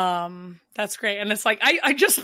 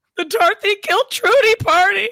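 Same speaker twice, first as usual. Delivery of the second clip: high, loud warbling voice; 11 semitones higher, 8 dB louder than usual. Answering a trivia question about what Dorothy wants the sign to say, in a warbling Dorothy Zbornak voice. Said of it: "In your best Dorothy Spornak voice".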